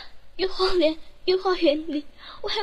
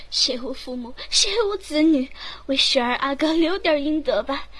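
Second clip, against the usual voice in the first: loud, earnest plea for mercy; raised pleading; 2 semitones lower, 5 dB louder than usual. Acted. Maid begs the empress for the prince's sake, raised plea.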